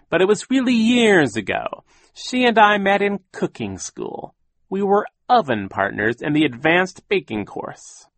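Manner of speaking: high, loud theatrical reminiscing; mournful voice. A narrator's reading. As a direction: spin the sad tale for show. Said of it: "began to speak in a mournful voice".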